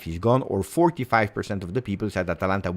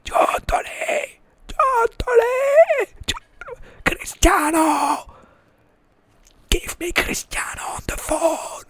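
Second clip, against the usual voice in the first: strained, squeaky stage-whisper cry; whispered shout; slower than usual. Acted. Player secretly calling Giuntoli from the bathroom, desperate whispered shouting. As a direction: call out desperately without full voice, names drawn out. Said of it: "I can't speak too loud".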